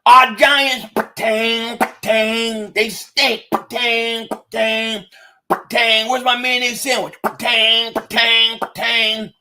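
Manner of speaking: mock Texas twang, ringing out each "tang"; teasing impression of a Texas accent; the speaker's Texas accent. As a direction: imitate a Southern accent with repeated twangy bursts. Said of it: "Listen to him".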